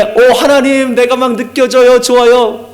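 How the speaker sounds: high, gushing cry of delight; enraptured worshipper. Acted. Preacher mimicking a worshipper who feels God, enraptured. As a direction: act out someone thrilled to feel God near. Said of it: "이런 분들 지금 계세요?".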